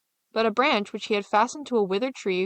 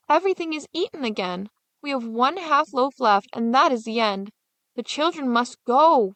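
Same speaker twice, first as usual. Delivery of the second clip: higher, insistent and cold; hard stepmother; 4 semitones higher than usual. Acted. Stepmother urging the father at night, cold and insistent. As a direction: press him without pity.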